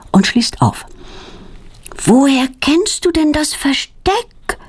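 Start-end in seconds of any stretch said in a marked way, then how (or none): 2.0-4.6 put-on higher, slow astonished girl's question. A narrator's reading. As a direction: ask it wide-eyed and amazed. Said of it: "fragt Claudia erstaunt".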